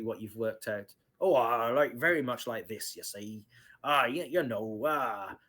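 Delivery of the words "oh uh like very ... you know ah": lightly put-on thick Bree local accent; a hint of a thick Bree accent, not fully voiced. Shown as a demonstration. Game master to players, demoing the thick Bree accent lightly. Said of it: "it's a very thick accent up here at Bree".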